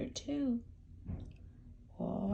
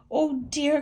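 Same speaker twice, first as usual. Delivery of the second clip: clucking hen; 7 semitones higher, 6 dB louder than usual. Acted. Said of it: "clucked Hilda".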